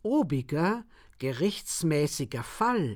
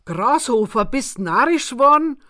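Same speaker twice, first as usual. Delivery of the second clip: panting; 7 semitones higher, 8 dB louder than usual. A narrator's reading. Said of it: "keuchte ich ihn".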